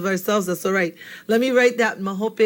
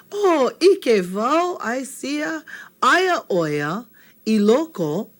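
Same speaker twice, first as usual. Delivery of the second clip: higher, slow, lightly voiced Anela; Anela's reply; 4 semitones higher, slower than usual. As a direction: answer like Anela spotting it. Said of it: "you hear Anela say".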